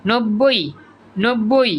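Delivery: নব্বই with a doubled b; ব sounded. Shown as a demonstration. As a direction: say নব্বই as nob-boi. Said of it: "ব এর সাথে যুক্ত হয়েছে".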